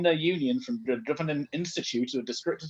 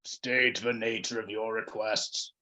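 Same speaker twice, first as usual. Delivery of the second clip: lighter, gentler; 4 semitones lower, 4 dB quieter, slower than usual. Acted. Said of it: "The words were lighter and gentler".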